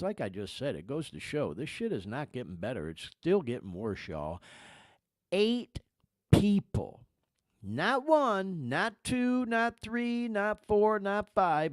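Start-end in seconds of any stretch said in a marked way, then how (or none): 5.3-11.7 each "not" number hit high and deliberate, with pauses between; rising, emphatic list of numbers with weight on each; dramatic countdown. Real, not acted. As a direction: count them off one by one for effect. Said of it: "I'm doing this for effect".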